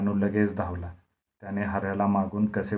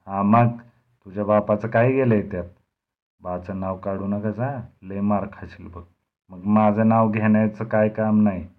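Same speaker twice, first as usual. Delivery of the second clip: arrogant retort; 5 dB louder than usual. Acted. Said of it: "Gurmeet म्हणाला".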